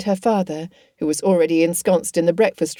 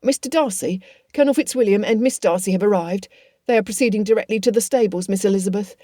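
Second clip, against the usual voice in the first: slightly raised-pitch, brisk servant; lightly voiced announcing servant; 3 semitones higher, faster than usual. Hill announcing visitors to Miss Elizabeth, brisk and a little high.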